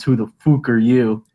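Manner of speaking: light imitation of an Irish accent; a hint of an Irish fighter's accent; mock Irish accent. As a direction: quote it with a touch of Irish. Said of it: "just with his Irish accent".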